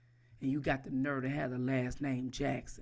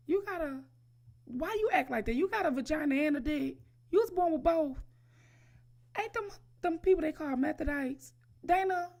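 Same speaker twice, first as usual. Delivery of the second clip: high, loud screeching outrage; hammed-up high-pitched screech of outrage; mock shriek; 12 semitones higher, 4 dB louder than usual. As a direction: squeal it in fake disbelief.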